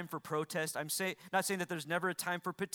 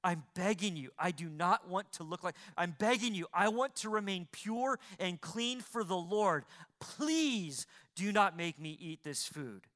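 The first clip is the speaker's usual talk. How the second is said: mild pleading. Acted. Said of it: "He's begging".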